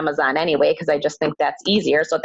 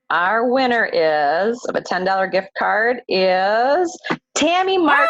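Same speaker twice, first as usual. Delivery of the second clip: hyped giveaway announcement; 3 semitones higher than usual. Acted. Drawing the monthly prize winner.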